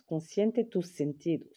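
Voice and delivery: slow, lightly put-on Spanish accent. Vlogger showing off the Spanish on a package, playful Spanish accent. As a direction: read it carefully with a Spanish accent. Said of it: "Vous avez vu l'accent?".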